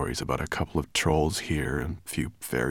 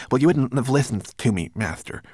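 higher-pitched manikin voice; meek servant; 7 semitones higher, 5 dB louder than usual. A narrator's reading. Manikin excusing himself to his master, high and meek. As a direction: answer back in a small high servant voice.

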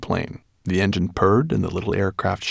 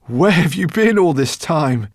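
high, loud anxious professor; fussy professor; 9 semitones higher, 7 dB louder than usual. A narrator's reading. Professor asking his friends where they were, anxious. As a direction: scold them gently out of worry.

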